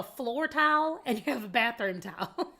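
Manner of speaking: tile and towel both said as "tal"; same pronunciation. Shown as a demonstration. Southerner showing floor and bathroom words match, same pronunciation. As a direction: make tile and towel sound identical, one syllable each. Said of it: "You pronounce them the same way".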